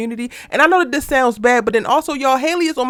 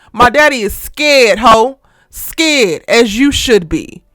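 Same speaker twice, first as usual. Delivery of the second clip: heated rant; 5 dB louder than usual. Real, not acted. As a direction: lay into her loudly.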